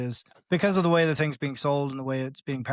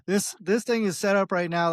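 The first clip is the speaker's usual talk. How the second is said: alarmed coder; 5 semitones higher than usual. Acted. Coder stopping a user from launching a bad app, acted alarm. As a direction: jump in to halt a disaster, playfully overdone. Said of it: "some coder would come along in two seconds and go".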